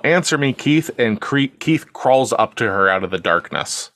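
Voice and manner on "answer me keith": higher-pitched imitated yell; mock yell. Woman searching for him in the dark, higher mock yell. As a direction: demand an answer, half-yelled. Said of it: "she begins to yell".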